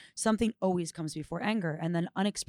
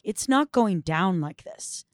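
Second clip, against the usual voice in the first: firm refusal, louder and emphatic; mild ferocity; 6 dB louder than usual. Acted. Woman refusing to repeat what happened to her, with understated ferocity. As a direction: put your foot down with controlled force. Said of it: "a ferocity of".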